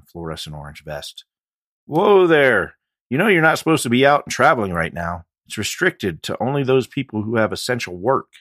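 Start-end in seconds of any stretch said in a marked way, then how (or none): 1.8-8.3 loud, high deputy calling a halt; stern deputy. A narrator's reading. Deputy stopping a biker at the roadblock, loud and stern. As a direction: wave him down hard.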